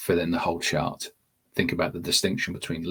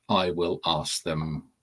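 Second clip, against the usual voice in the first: wrong example; much slower than usual. Retold or imitated. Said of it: "We don't want".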